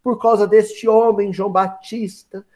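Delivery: slow, drawn-out mock suffering; milk the woe slowly, as a scheming mother would; craftily plaintive. Herodias manipulates her daughter against João Batista, hammed-up craftily plaintive. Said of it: "muito ardilosamente, falou".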